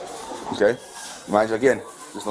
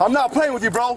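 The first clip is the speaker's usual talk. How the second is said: firm, raised warning voice; stern high warning; 9 semitones higher than usual. Real, not acted. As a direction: warn him you mean it. Officer warns resisting suspect.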